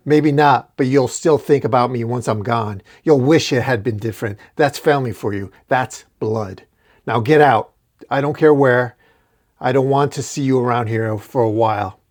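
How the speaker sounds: cold father telling off his son; stern father. Acted.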